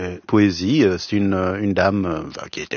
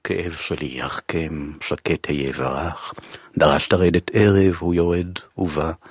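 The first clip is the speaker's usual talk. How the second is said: poem in Hebrew; 3 semitones lower than usual. Shown as a demonstration. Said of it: "je ne pouvais m'empêcher de le traduire en hébreu".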